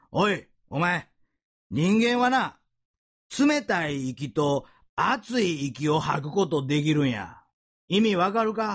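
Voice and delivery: a hint of a gruff Osaka band teacher; lightly voiced Kansai teacher pressing his students; Osaka dialect teacher. Preacher imitating the band teacher to his students, mild Osaka dialect. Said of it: "大阪の先生なんで大阪弁で喋ってはるんですけど".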